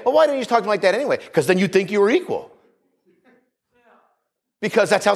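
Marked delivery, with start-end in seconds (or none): 0.0-1.2 mock protest. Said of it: "And you say".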